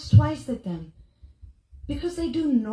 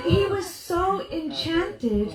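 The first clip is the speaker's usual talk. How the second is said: laughing; 4 semitones higher, 4 dB louder, slower than usual. Real, not acted. Laughing through retelling.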